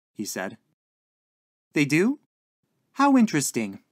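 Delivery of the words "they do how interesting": higher, louder genteel interest; interested landlady. A narrator's reading. Landlady answering her lodger, politely fascinated. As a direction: lift it brightly into polite interest.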